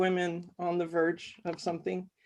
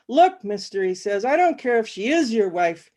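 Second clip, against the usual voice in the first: agitated insisting; 4 dB louder than usual. Acted.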